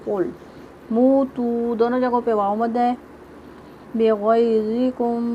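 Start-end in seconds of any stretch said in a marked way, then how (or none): 3.9-5.2 slow recitation demo. Shown as a demonstration. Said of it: "गैन भी मोटा पढ़ेंगे".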